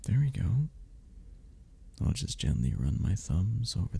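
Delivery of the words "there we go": a gentle, reassuring whisper. Acted. Reassuring the listener as their hand settles, whispered. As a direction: breathe it out in a whisper. Holding hands, soothing the listener.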